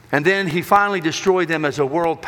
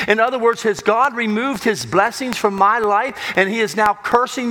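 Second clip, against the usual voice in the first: mildly anguished questioning, building higher as it goes; questioning God; 3 semitones higher than usual. Acted. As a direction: press each question on God, rising in pitch, dropping on the last word. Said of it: "he begins to question God".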